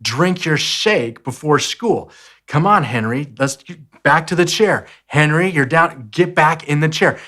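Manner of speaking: patient coaxing that turns firmer; nicely, growing impatient. Retold or imitated. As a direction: coax the kid back to his chair, patience wearing thin. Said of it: "I was telling him nicely".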